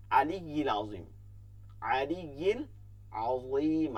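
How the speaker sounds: আলিয়্যিল and আযীম opened with a squeezed throat vowel; throat ain. Shown as a demonstration. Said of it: "আইন". (আইন থেকে শুদ্ধ উচ্চারণ)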